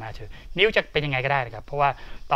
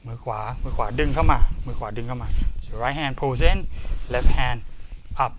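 louder coach's calls through the moves; called drill cues; 5 dB louder than usual. Real, not acted. Teacher calling out each hand move to students, loud and firm. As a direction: call each move out to the class.

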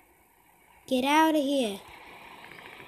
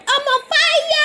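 much higher, loud cracking yell; 13 semitones higher, 10 dB louder than usual. Real, not acted. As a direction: let the voice crack on fire. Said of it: "Voice crack there".

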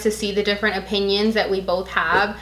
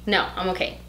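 teary; 11 dB quieter than usual. Real, not acted. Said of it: "her tone of voice, you can hear it".

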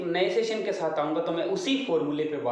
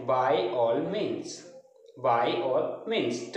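drawn-out, lower teacher voice; slow model answer; 4 semitones lower, much slower than usual. Shown as a demonstration. Teacher models the class's answer slowly. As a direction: stretch each word out for the class. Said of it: "मैं आपका answer सुन पा रहा हूँ".

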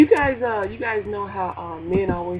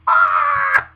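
startled yelp; 8 dB louder than usual. Retold or imitated. Startled yelp after sneeze.

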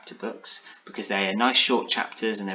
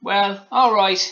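high, loud little biscuit man; talkative biscuit; 11 semitones higher, 8 dB louder, slower than usual. A narrator's reading. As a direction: concede in a high character voice. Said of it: "replied the talkative biscuit".

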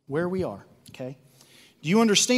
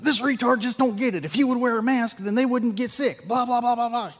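higher, scornful mimicry ending in blah blah; mocking the other side; 5 semitones higher than usual. Pastor mimicking the opposing side's scorn. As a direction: sneer through their side of the argument. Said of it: "they're doing the exact opposite".

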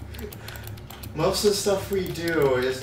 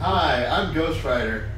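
Ghost Rider voice. Acted. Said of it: "You sound like Ghost Rider".

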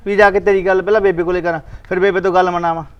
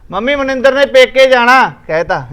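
mocking mimicry; 5 semitones higher, 4 dB louder than usual. Husband mockingly rehearses telling mom.

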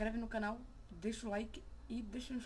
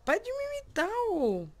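much higher, loud mock yell; mock angry shout; 14 semitones higher, 11 dB louder than usual. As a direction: yell at the mirror to stop copying. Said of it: "fica imitando o cara". (gritando com o espelho para parar de imitar)

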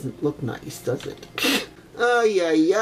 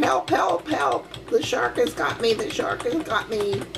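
high mock cries for help, fading out; lightly voiced koala calling for help; koala hollering; 5 semitones higher than usual. Grandma voicing the koala calling for help, in a light mock cry. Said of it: "the koala is hollering".

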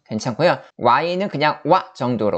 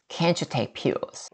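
slow model read; 2 semitones higher, 8 dB quieter, much slower than usual. Shown as a demonstration. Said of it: "이렇게".

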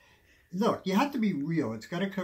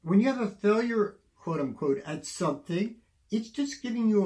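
emphatic, rising passion; 6 semitones higher, 5 dB louder than usual. Real, not acted. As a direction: preach it with building force. Emphatic motivational point.

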